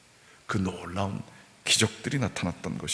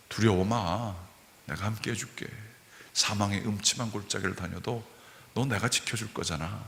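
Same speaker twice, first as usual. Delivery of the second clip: softer, gentle comforting words; tender reassurance; 2 semitones lower, 6 dB quieter than usual. Pretend. The Lord comforting my fearful soul, softly reassuring. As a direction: soothe a frightened child.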